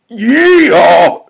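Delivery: high whooping holler; loud, drawn-out yell; shouting back. Acted. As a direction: whoop it back across the distance. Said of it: "shouts Bill back".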